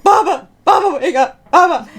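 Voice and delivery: high, loud urgent call; urgent shouting. Retold or imitated. Girl wakes her grandfather with urgent shouts. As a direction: shout to wake him up.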